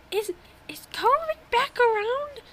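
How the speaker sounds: high breathy whisper, leaning in; whispered old lady quote. Retold or imitated. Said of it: "And she was like".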